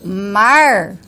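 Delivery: mar with regional R; own mar. Shown as a demonstration. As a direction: say mar the Paraná way. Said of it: "quando eu falo". (mar com o R da região)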